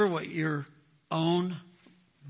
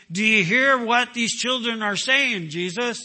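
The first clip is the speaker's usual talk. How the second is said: priests' indignant challenge, louder; mild mock outrage at the crowd's praise; scandalized scribes demanding an answer; indignant priests; 4 semitones higher, 4 dB louder than usual. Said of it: "they became indigent".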